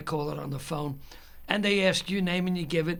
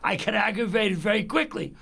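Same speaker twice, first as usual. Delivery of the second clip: higher-pitched heated rant; aggravated; 6 semitones higher than usual. Retold or imitated. Caller after fifteen fruitless minutes on the phone, aggravated. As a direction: keep the pitch up and push through the complaint. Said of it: "is me getting aggravated".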